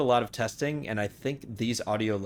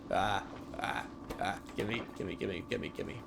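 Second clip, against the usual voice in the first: breathless frantic pleading; panicking; 8 dB quieter than usual. Real, not acted. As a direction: gasp it out in a panic. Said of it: "I'm kind of panicking".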